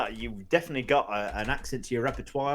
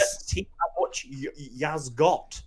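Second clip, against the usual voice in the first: posh mimicry. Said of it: "You turned me into Hugh Grant".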